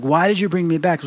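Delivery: lightly acted hurt objection; emotional protest. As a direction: retell an upset question with a touch of protest. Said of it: "I'm getting emotional".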